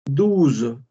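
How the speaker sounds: Douze said as duz, OU like U; French douze. Shown as a demonstration. Teacher models French twelve: Douze pronounced duz. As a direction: Douze with OU as a U sound and final z. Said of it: "La O y la U suena como una U".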